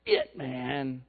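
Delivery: mock Missouri hillbilly complaint to God. Preacher voicing Elijah complaining to God, light Missouri hillbilly twang. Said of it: "I got this Missouri hillbilly thing going on".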